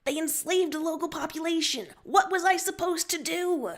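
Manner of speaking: high, indignant demand. Acted. Captain answering Sulik on the run, demanding. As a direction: insist while running, voice climbing. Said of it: "You demand and keep running".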